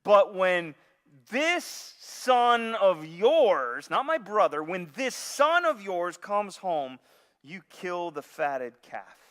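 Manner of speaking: slow, loud sneer at this son of yours; bitter accusation. Retold or imitated. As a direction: spit out the words with contempt. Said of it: "He's upset. He's angry".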